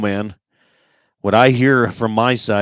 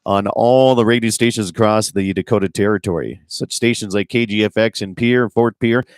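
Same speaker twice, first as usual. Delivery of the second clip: radio host intro. Acted. Host opening the Saturday outdoors show to listeners, upbeat announcer read.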